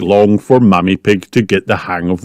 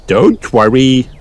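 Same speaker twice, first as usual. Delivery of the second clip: slow, raised reassuring voice; storybook helper, pitched up; Miss Rabbit; 4 semitones higher, 3 dB louder, slower than usual. A narrator's reading. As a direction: soothe them in a higher character voice. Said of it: "replied Miss Rabbit".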